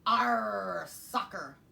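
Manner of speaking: um arr gritado; grito de pirata. Acted. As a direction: chute a bola e grite. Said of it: "kicked the ball and yelled".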